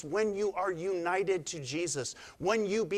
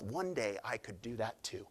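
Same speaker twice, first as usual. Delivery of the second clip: dreamy, much softer aside; soft whisper; 6 semitones lower, 9 dB quieter than usual. Retold or imitated. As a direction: hush it to yourself while watching the plane. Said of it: "you whisper to yourself".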